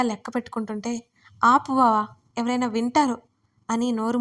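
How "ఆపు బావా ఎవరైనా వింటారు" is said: a sharp, louder stop; hushing him urgently, raised voice. Acted. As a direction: cut him off before anyone hears. She hushes him urgently.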